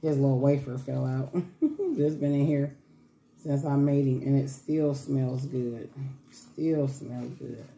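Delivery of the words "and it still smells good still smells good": slow, soft still smells good; savoring. Real, not acted. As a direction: linger fondly on the words.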